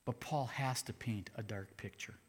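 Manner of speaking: hushed whisper to the congregation. Real, not acted. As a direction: whisper it like a secret. Preacher drops to a whisper.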